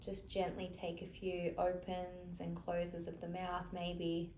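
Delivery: soft, unhurried meditation-teacher voice; softly spoken, spacious relaxation cues; guided relaxation. Real, not acted. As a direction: gently guide them to relax, leaving long pauses. Leads a gentle relaxation.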